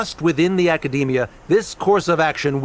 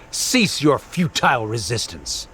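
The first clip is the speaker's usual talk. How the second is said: stern command; 4 semitones lower than usual. Acted. Official orders opponent to give up.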